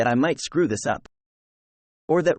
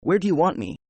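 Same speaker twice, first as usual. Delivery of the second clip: calm; 4 semitones higher than usual. A narrator's reading. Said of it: "he very calmly says".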